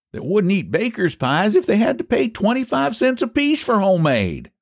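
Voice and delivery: high-pitched rustic character; country pie seller Eph. Acted. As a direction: voice a high, folksy pie man.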